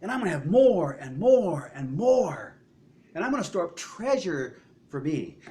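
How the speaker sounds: lightly voiced greedy man; greedy rich man. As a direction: voice the man hoarding for himself. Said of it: "the man is saying".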